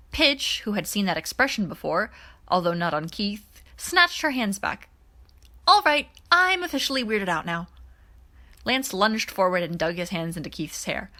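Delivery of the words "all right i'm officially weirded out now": weirded out. Acted. Pidge snatching hands back, weirded out.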